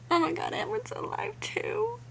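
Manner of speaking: high, overcome squeal of surprise; joyful shock. Real, not acted. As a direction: pitch shoots up in disbelief. Reader finds another character alive.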